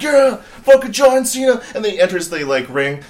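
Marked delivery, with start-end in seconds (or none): 0.0-1.6 high, loud, slow fan yell; hyped fan shout. Retold or imitated. Retelling his own reaction to his friend, a high loud fan yell. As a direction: scream it like a wrestling fan. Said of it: "And I'm like".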